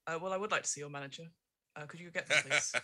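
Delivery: lightly voiced demanding customer; a hint of entitled Karen. Player asking the dancer for the manager, mock Karen. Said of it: "in my best Karen voice".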